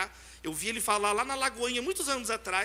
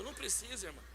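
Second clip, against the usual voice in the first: quiet; 12 dB quieter, faster than usual. Retold or imitated. Father quietly declines therapist.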